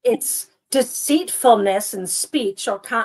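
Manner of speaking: put-on botched affected accent, slow and drawn out; badly faked theatrical accent, stretching the words; Moira Rose accent. Reading a definition in a failed imitation of an affected accent. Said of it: "I'm not doing her accent even slightly properly".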